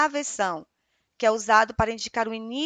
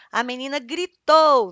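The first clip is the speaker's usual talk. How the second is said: louder, slower demo of a yell; a hammed-up louder read of gritou; mock shout; 2 semitones higher, 7 dB louder than usual. Shown as a demonstration. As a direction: punch it out like she's shouting. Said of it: "nós já sabemos que ela vai gritar".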